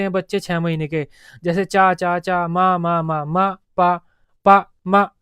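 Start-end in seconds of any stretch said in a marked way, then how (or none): 1.6-5.1 "चा", "मा", "पा" as separate, even single syllables; baby one-syllable sounds. Shown as a demonstration. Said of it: "इस तरह से बोलने शुरू कर देते हैं".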